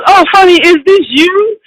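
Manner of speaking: high, sugary "oh honey"; sweet surprised manager. Retold or imitated. Manager greeting a nervous young bassist, lightly high and sugary. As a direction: coo over the demo like a delighted host. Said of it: "And he goes".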